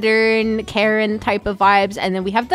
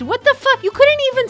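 shocked outburst; 12 semitones higher, 4 dB louder, faster than usual. Real, not acted. Outraged at the decor.

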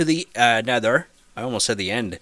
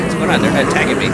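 loud and confused; 3 semitones higher, 6 dB louder, much faster than usual. Real, not acted. Confused during the fight.

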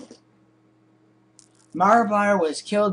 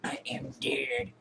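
whisper; 4 semitones lower, 13 dB quieter than usual. Real, not acted. Gamer whispering after Slender Man catches him. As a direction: whisper in defeated dread.

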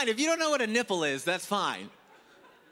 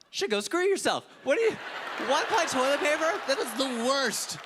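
mock outrage; 7 semitones higher than usual. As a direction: blow up in comic disgust. Outraged at one-ply advice.

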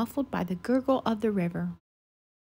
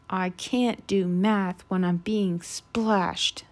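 slow, low flustered sputter; 3 semitones lower, 3 dB louder, slower than usual. Acted. Goose sputtering at Thistle while being splashed. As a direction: splutter it out, fed up. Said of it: "sputtered Goose".

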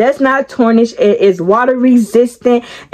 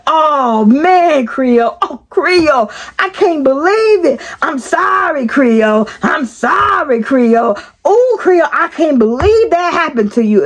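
higher, whiny pleading coworker voice; mock apologetic Loco; 5 semitones higher than usual. Loco texting sorry to Creole, whiny pleading apology. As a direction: whine the apology like a sorry friend. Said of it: "Loco texts me back like".

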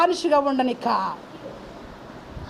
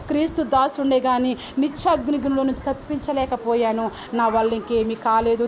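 tearful lament; 2 semitones lower than usual. Acted. Preacher voicing the weeping apostle's regret, understated tearful lament. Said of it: "ఏడుస్తూ చెబుతున్నాను".

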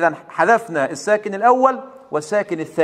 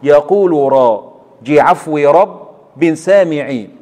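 slow syllabified reading; 3 semitones lower, slower than usual. Shown as a demonstration. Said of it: "نكتب مع بعض البيت الأول".

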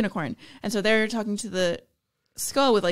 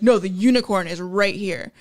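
acted alert, slightly raised volume; half-hearted skull holler; mild mock yell; 4 dB louder than usual. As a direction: call out the unicorn's hiding place. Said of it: "he yells even louder".

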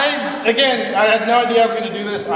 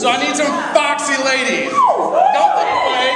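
raised, higher-pitched stage call; pitched-up emcee shout to the audience; calling out to crowd; 6 semitones higher than usual. Real, not acted. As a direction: call out for volunteers over the room.

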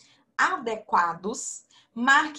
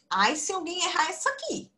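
mock threat; 8 semitones higher, faster than usual. Teacher teasing kids about answer.

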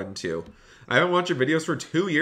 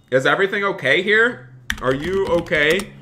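raised, high questioning call; concerned call; 5 semitones higher, 4 dB louder than usual. Real, not acted. Streamer checking on people in an accident, concerned.

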